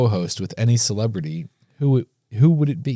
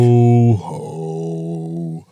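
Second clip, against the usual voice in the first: deep bass yo ho; 6 semitones lower than usual. Shown as a demonstration.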